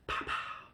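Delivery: voiceless mouth-made gun pops; mock pistol noises; imitated gunshots. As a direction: puff out two quick pretend shots. Imitates gunshots in retold chase.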